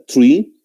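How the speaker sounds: "tree" with T in place of TH; mispronounced three. Shown as a demonstration. Teacher warns about learners' error, mispronounced three. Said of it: "de esa manera".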